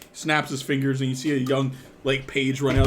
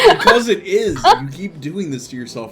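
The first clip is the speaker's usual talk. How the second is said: loud, high laughing protest; teasing laughter; 6 semitones higher, 11 dB louder than usual. Real, not acted. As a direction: protest while cracking up. GM laughs while teasing player.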